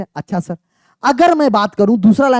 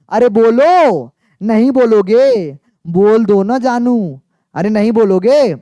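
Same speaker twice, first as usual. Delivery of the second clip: coaxing; slower than usual. Acted. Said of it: "इतना प्यार से पढ़ा रहा हूं".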